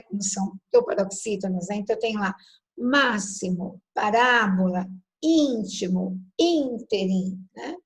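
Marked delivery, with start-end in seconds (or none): 2.8-7.4 máximo, parábola, íntimo, ínterim one by one, accented syllable stressed; measured word list hitting the third-last syllable of máximo, parábola, íntimo, ínterim; antepenultimate stress. Shown as a demonstration. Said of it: "O acento vai na antepenúltima". (máximo, parábola, íntimo, ínterim, com a antepenúltima forte)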